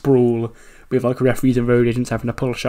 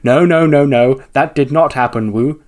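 loud, acted horrified denial, easing off; horrified disbelief; 3 semitones higher, 5 dB louder than usual. Eliminated wrestler refusing to accept it, mock horrified. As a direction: play outraged disbelief, lightly hammed-up. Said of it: "looks on in absolute horror".

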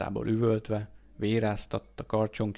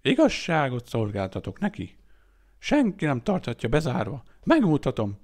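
loud, ranting oration; raised, grandstanding declamation; bombastic speech; 4 semitones higher, 6 dB louder than usual. A narrator's reading. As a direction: proclaim it like a fanatic preacher. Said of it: "bombasztikus szónoklatát".

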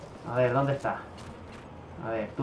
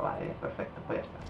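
near-whispered under his breath, much softer; muttered aside; 14 dB quieter than usual. Real, not acted. Gamer muttering his loadout choice to himself, whispered. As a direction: breathe it out to yourself.

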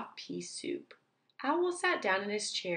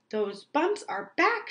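slow, loud alarmed shout; 6 semitones higher, 4 dB louder than usual. Acted. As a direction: yell it out in dismay. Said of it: "shouted Owl".

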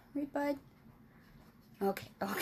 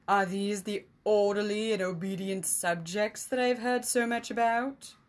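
louder, sneering question; mocking emissary; 4 dB louder than usual. Emissary mocking the king about his unruly subjects, sneering. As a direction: taunt the king with mock surprise.

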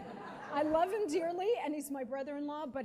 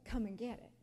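sly taunt; 4 dB quieter than usual. Retold or imitated. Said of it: "mocking me".

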